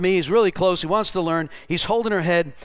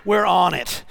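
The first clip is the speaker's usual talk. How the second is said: loud, emphatic rallying cry; fired up; 4 dB louder, slower than usual. Retold or imitated. Preacher retelling the team pressing on, fired up. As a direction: punch it out with zeal.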